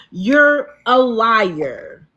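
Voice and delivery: slow, drawn-out sarcastic accusation. Real, not acted. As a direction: drag it out with sarcasm. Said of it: "he sense the sarcasm coming out of the voice".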